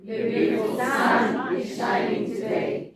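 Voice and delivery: slow, loud chant leaning on "sun"; loud group line punching "sun"; stress on sun. Shown as a demonstration. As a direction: hit the word "sun" together. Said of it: "Now, sun".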